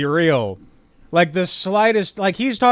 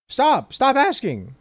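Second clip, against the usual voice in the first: mock exasperation; 7 semitones higher, slower than usual. Voicing Trump, exasperated.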